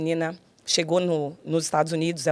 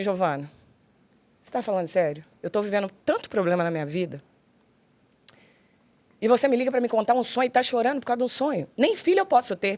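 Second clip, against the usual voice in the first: exasperated retort; 3 semitones higher than usual. Retold or imitated. Mother retells exasperated reply to daughter.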